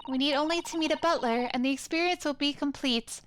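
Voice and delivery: a hint of a courteous young assistant; lightly voiced polite assistant. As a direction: introduce the client politely, lightly in character.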